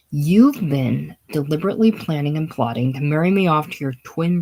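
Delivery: mildly indignant accusation, measured delivery. Acted. Dorothea confronting Bodhi over plotting to marry her off, indignant. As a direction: lay out the grievance with restrained indignation. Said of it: "stares indignantly at Bodhi".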